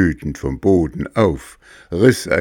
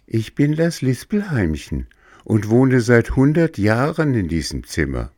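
high, gentle little cricket; 6 semitones higher than usual. Acted. Cricket character speaks.

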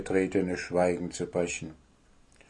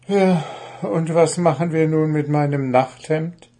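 sighing; 5 semitones higher, 4 dB louder than usual. Acted. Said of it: "fragte Puh seufzend".

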